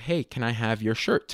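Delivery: plain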